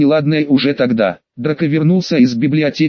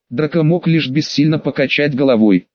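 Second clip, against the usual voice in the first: usual speaking voice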